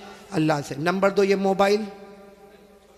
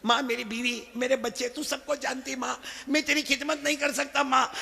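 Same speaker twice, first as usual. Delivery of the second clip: soft pleading; 3 semitones higher, 6 dB quieter than usual. Acted. Son pleading softly to mother.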